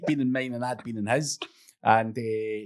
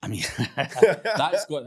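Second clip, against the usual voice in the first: laughing; 4 semitones higher, 5 dB louder, much slower than usual. Real, not acted. Reacting to funny story.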